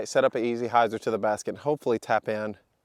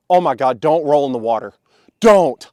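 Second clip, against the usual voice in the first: urgent shout; 8 dB louder than usual. Real, not acted. Disc rolling toward water.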